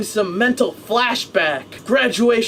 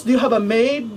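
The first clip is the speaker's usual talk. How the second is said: put-on Filipino accent; faster than usual. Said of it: "talk like, the Filipinos".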